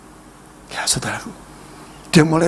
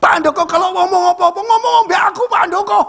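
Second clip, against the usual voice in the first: much higher, loud fast boasting call; bold shout; 3 dB louder than usual. Retold or imitated. Father retold shouting at the pastor, high, loud and fast. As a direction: fling it out as a proud challenge. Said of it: "sampai dia buka tangan sama saya".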